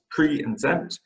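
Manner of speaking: "pre" and "zent" as separate syllables; "pre", then "zent", each said on its own; split into syllables. Shown as a demonstration. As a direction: break "present" apart, saying "pre" and "zent". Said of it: "it's two syllables".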